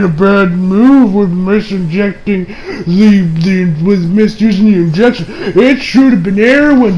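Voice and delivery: slow, drawn-out mocking accusation; hammed-up petty scolding. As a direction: imitate a petty blamer, dragging each word. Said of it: "this motherfucker being petty as hell".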